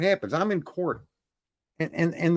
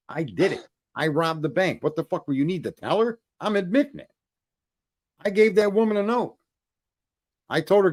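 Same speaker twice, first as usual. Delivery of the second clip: retold losing it. Defendant flipping out at the judge, mounting indignation. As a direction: start incredulous, build to an indignant rant. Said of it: "I fucking lost it".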